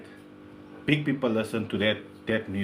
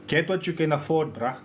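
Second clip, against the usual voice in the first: gangster answer; 3 dB quieter than usual. Acted. Host giving the gangster answer to a question, lightly gangster. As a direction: give it a touch of gangster swagger. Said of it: "I'll give you the gangster".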